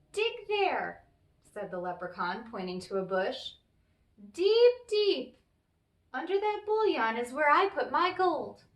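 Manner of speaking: high, loud leprechaun pointing out the spot. Acted. The leprechaun shows Tom where the gold lies, high and loud.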